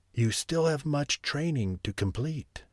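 the sorcerer relenting toward Franz; lightly voiced stern sorcerer. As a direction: grant a grudging pardon.

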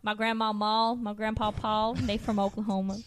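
put-on Oklahoma Southern accent. Explaining family roots to teasing friends, Oklahoma Southern accent. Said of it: "this Oklahoma Southern accent".

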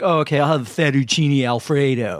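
imitating mom's slow mockery of plain pronunciation; mocking. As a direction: drag it out to make fun. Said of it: "but then she mocks me".

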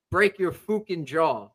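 slow imitated Irish threat; mock Irish brogue, menacing words stretched; heavy Irish accent. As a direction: do a thick Irish accent, drawn out. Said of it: "heavy Irish accent".

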